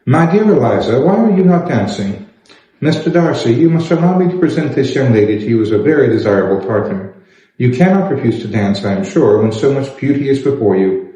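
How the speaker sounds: a hint of a pompous courtier; Sir William. Sir William presents Elizabeth.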